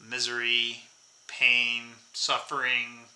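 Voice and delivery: low, soft, slow sage voice; Yoda. Acted. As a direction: intone it like a wise old master. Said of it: "I sound like Yoda now".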